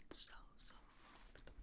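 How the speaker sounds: very soft, slow murmur; hushed savouring. Real, not acted. Host admiring a velveteen robe, hushed savouring. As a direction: linger quietly and slowly on the softness.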